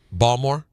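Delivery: "Balmore" with the t dropped, two syllables; Baltimore local style. Retold or imitated. Host mimicking how locals say "Balmore". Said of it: "they say weird things like".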